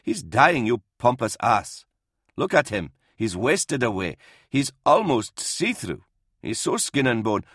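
lightly voiced priest scolding with rising and falling emphasis; indignant old priest. Old priest berating commissar over dying doctor, mildly indignant.

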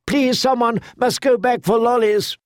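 high, pleading mother's voice; desperate plea. A narrator's reading. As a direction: beg them, near panic. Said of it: "cried Lady Tanda".

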